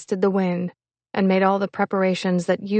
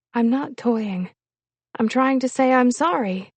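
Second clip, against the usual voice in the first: higher-pitched, earnest protest; mild protest; 5 semitones higher than usual. Acted. Woman trying to apologize to him, mildly pleading. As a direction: insist on it, a touch pleading. She protests to her angry lover.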